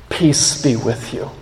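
tender peace. Acted. Jesus' words quoted gently.

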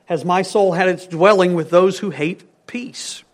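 hushed, breathy reading of the verse; whisper. Shown as a demonstration. Preacher whispering the psalm to the congregation, hushed. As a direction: let the verse fall to a whisper.

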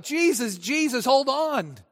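flustered hostess hurrying after a guest; Martha calling out. Retold or imitated. Preacher voicing Martha calling Jesus at her door, eager. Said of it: "she cries out".

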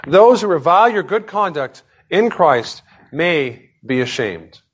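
formal, emphatic Bible reading; scripture reading. Acted. Preacher reads the word of God to congregation, formal scripture reading. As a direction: read it out with weight and pauses.

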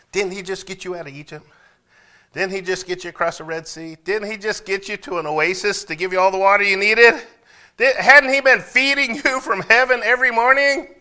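high, loud, building preacher rebuke; preaching rebuke. Acted.

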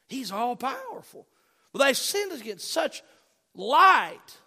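impassioned preaching. Real, not acted. Preaches at full force.

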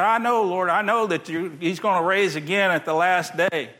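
Martha pleading with rising hope; eager confession. Acted. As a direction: say it with eager conviction. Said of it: "and she said".

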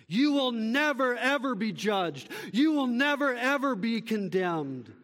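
high, forceful start on each "You will never"; emphatic NEVER EVER. Real, not acted. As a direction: punch "You will never", then let "ever" drop. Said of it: "as emphatic as you can get".

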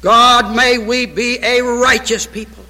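solemn prayer voice that swells in places and fades at amen; pastoral prayer. Acted. Pastor leading his church in closing prayer, solemn. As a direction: pray over the congregation, earnest and grave.

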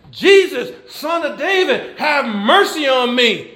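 mild mock scream, pitched high; retold holler. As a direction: cry out for mercy, half-hollered. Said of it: "was hollering and screaming".

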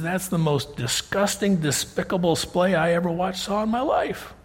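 mildly scandalised Pharisee, pitch climbing; retold indignation, building in pitch; mock disgust. Scandalised Pharisee voiced in retelling.

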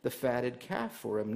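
loud, resentful complaint to his father; older brother venting his anger at his father; angry older brother. Retold or imitated. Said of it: "Remember what that older brother said in his anger".

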